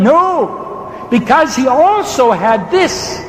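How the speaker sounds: insistent pulpit argument; emphatic preaching. Real, not acted. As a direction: preach it like a case being proved. Preaches the crucifixion argument forcefully.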